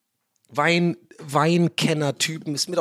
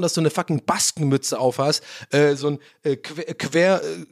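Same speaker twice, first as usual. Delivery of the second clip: ordinary delivery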